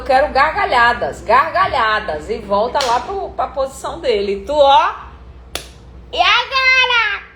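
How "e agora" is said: high, drawn-out puzzled question; bewildered. Shown as a demonstration. Actress baffled by the director's new note. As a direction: sound lost and confused.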